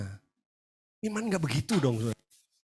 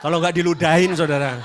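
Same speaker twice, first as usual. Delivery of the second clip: laughing; 13 dB louder than usual. Real, not acted. Joke punchline to congregation.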